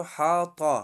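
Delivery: حاطا with a thick, heavy ط; heavy emphatic ط in حاطا. Shown as a demonstration. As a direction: make the ط in حاطا full.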